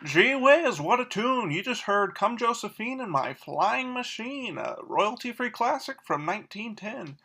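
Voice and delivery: swooping, lilting 1940s announcer; gee-whiz radio presenter with sing-song pitch; old-time radio host. Acted. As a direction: play a chipper vintage radio emcee.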